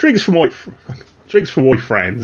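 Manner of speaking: put-on London Cockney accent. Voicing a character who orders drinks for the visitors: cockney accent. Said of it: "I'm trying to do more Cockney".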